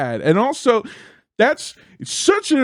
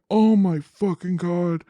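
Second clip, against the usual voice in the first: mild retold freak-out; 2 semitones higher than usual. Comic reading the news backstage, mildly freaking out. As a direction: replay your dawning horror, lightly acted. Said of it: "I'm freaking out".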